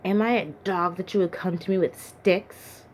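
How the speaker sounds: a restrained roar of contempt; mild roar. Acted. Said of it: "he roared".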